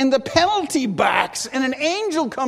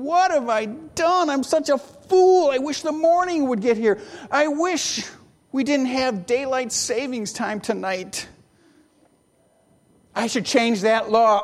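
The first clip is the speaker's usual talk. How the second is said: higher, fretful inner voice of a sleepless king; anxious king; 3 semitones higher than usual. Acted. King lying awake regretting the law, fretful. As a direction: voice the king's regret as he tosses in bed. King's sleepless worried thoughts.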